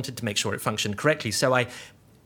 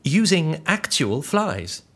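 slow reveal; much slower than usual. Acted. Dramatic reveal.

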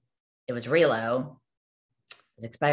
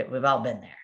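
ordinary talk

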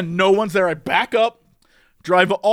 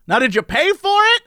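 higher, mock-polite helpline lady; phone attendant lady; 10 semitones higher than usual. A lightly voiced help-line operator questioning a stuck driver. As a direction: imitate the prim operator asking.

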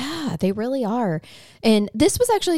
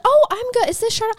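retold caller; 4 dB louder, faster than usual. Acts out caller on the phone.

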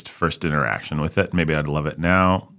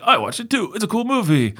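Jake was like. Retold or imitated. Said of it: "Jake was like".

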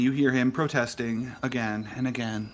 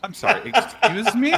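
offended disbelief; 9 semitones higher, 7 dB louder than usual. Acted. NPC offended, laughing.

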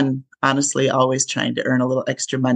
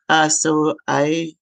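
gravelly voice. Real, not acted. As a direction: gravelly voice from a cold. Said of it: "I sound a little bit more, um, gravelly than I usually do".

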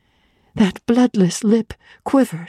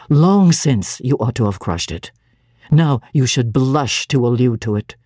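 a lower, measured voice for the cold clergyman; stern clergyman; 6 semitones lower than usual. Acted. Clergyman lecturing the young woman, low and stern. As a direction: lay out his reproach low and deliberate.

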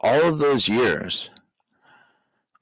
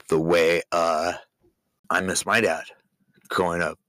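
real emotion, choked up after a sigh; holding back tears over a missing dad; getting emotional. Real, not acted. Father telling his child about his own dad, choked up. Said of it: "Sorry, I'm getting a little emotional".

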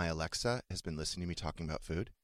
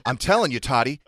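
higher, louder worried dad voice; imitating dad; 9 semitones higher, 8 dB louder than usual. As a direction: do the dad fretting to his son. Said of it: "That's how he talks".

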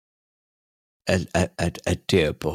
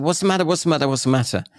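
imitating startled wife; 7 semitones higher, much faster than usual. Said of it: "And she said".

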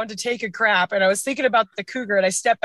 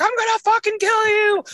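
zombie; 13 semitones higher than usual. Retold or imitated. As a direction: scream it like a raging zombie. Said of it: "I probably sounded like a zombie".

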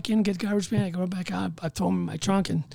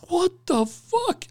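slow, high-pitched astonishment; dumbfounded, rising at the end; retold stunned disbelief; 9 semitones higher, much slower than usual. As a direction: draw it out as the stunned cook. Cook looks in the trunk.

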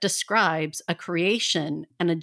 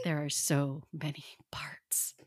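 whispered aside; 6 semitones lower, 11 dB quieter than usual. Real, not acted. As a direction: breathe it out in a whisper. Overwhelmed aside about many parts.

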